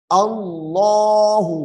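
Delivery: अल्लाहु with a thick, full lam; अल्लाहु recited with a heavy, dark lam. Shown as a demonstration. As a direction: fill the mouth on the l of अल्लाहु. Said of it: "अल्लाह का लाम यहाँ पे मोटा हो रहा है".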